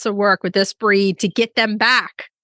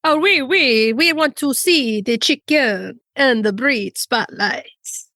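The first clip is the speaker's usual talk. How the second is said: put-on French accent; 3 semitones higher, slower than usual. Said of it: "I love my French accent".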